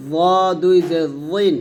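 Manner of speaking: heavy, rounded "জ", then a thick "জিন". Shown as a demonstration. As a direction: make the "জ" sound full-mouthed, held long. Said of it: "জ মোটা করে".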